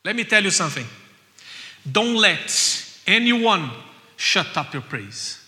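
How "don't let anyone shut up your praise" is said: loud, slow, emphatic; exhorting. Acted. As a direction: drive it home to the church. Preacher exhorting.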